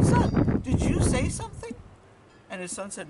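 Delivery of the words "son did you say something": high, loud call to his son. Acted. Father checks whether his son spoke, calling out. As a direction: call across with a raised, questioning voice.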